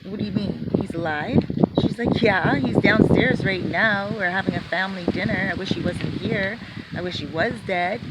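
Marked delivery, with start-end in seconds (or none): 0.0-1.4 shocked. Retold or imitated. Jose shocked. 2.2-8.0 loud ranting. Retold or imitated. Sister ranting about brother.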